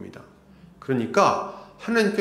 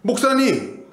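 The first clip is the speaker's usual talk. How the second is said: raised, louder complaint to the pastor; indignant protest; 4 semitones higher, 4 dB louder than usual. Retold or imitated. Church member angrily protesting to the pastor, raised voice. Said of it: "뭐 이렇게 얘기를 했다는 거죠".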